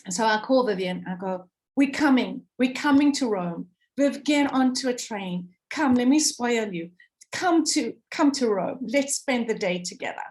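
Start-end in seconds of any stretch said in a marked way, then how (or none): 1.8-10.3 excitedly begging a friend to come to Rome; excited invitation. Retold or imitated. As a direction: coax her eagerly onto the train.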